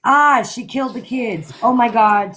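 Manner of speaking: a read-out scream that stays restrained; retold scream. Father discovering his dead children, mock screaming. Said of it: "And then they're screaming".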